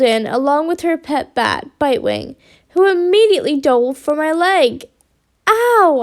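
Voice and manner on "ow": high, drawn cry of pain; pained yell. A narrator's reading. Bat dives for injured leg, pained yell. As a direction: yelp it out. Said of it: "I yelled".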